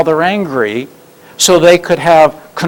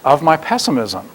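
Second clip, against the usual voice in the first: slow proud drawl. Retold or imitated. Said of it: "when she says".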